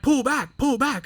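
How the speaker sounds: high-pitched mock cockpit shout; urgent command. Instructor to trainee near the landing strip, urgent. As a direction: imitate an instructor urgently ordering.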